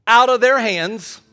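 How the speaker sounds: ringing, deliberate pulpit reading; declaimed scripture. Acted. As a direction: proclaim the verse with weighty pauses.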